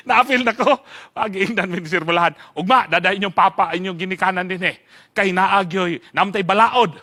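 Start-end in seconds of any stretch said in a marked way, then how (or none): none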